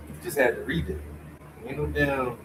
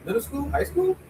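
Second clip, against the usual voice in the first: incredulous; 11 semitones higher than usual. Real, not acted. Incredulous about picture books.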